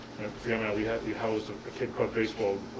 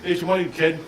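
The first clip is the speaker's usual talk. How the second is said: with attitude; 6 semitones higher, 6 dB louder than usual. Retold or imitated. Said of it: "I had a little attitude about me".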